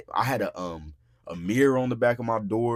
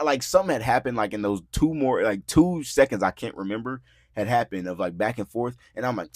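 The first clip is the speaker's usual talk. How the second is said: usual speaking voice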